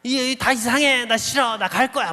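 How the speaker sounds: imitated child's cross protest to mother; retold angry whining. Child protests to mother in church, retold angry whining. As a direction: act out a kid refusing to stay. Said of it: "엄마한테 막 화를 냅니다".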